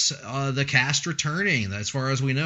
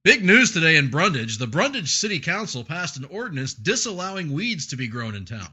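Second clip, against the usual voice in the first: radio reporter voice. Shown as a demonstration. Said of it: "radio reporter voice from college".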